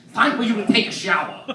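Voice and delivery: lightly voiced New York accent; a hint of New York dad; New Yorker dad. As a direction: imitate a high-strung New Yorker father. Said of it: "this crazy high-strung New Yorker".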